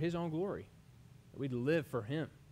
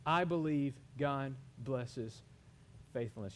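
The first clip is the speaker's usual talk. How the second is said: slow declaration; slower than usual. Shown as a demonstration. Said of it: "wanna say it with me".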